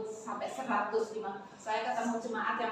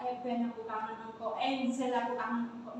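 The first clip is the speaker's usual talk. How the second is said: wrong way; 6 dB quieter than usual. Shown as a demonstration. Preacher shows the wrong way, said softly and casually. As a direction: murmur "Eh, Ben, aku kangen engkau" softly, like an everyday remark. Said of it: "berserunya jangan berkata".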